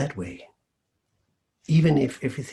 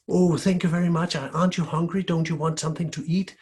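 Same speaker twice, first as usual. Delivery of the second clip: higher, fawning gratitude; eager thanks; 6 semitones higher than usual. Acted. Lady of the house suddenly eager to please the girl. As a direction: gush over the girl now.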